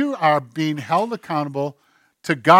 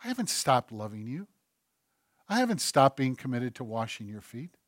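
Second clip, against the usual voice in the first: softer, lower voice of God; gentle whisper-like voice; 4 semitones lower, 8 dB quieter than usual. Acted. God speaking to the drifting listener, softly. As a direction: speak it tenderly and hushed. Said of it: "God whispers to you".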